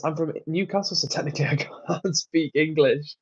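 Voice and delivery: put-on light Geordie accent on a read-out chat message. Reading Craig's chat message aloud in a mock Geordie accent. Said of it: "That's good imitation".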